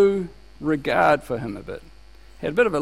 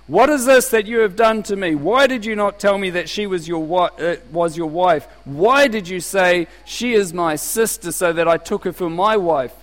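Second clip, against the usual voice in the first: Pharaoh's rebuke; 2 semitones higher, 4 dB louder than usual. Acted. Preacher voicing Pharaoh's rebuke.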